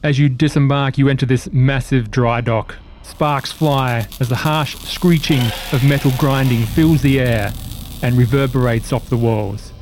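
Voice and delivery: measured game master narration; scene narration. Acted. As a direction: set the scene like a storyteller. GM sets the scene.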